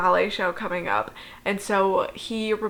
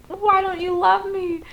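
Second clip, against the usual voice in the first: high nasal mocking wail; whiny Paul; 10 semitones higher than usual. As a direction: squeal it like a needy brother. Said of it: "And then Paul's like".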